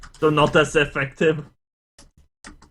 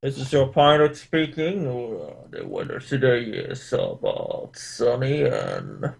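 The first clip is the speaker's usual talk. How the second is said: pilot voice; 4 semitones lower than usual. Pretend. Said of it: "talking a pilot voice".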